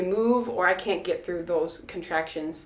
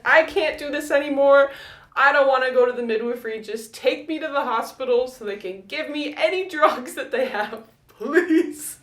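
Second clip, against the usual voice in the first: panicked plea to her husband, pitched up; desperate plea; 5 semitones higher than usual. Retold or imitated. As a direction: beg him for drugs in a panic. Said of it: "I grabbed Will and I said".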